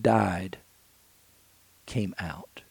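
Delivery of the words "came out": whispered "came out"; hushed awe. Acted. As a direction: drop to a whisper for the miracle. Dramatic hush at the climax.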